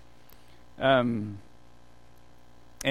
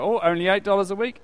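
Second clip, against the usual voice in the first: higher, quick, mock-impressed question; impressed reaction; 6 semitones higher, 4 dB louder, faster than usual. Niece hearing the phone deal, impressed reaction. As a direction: pipe up as if it's a bargain. Niece taken in by sales pitch.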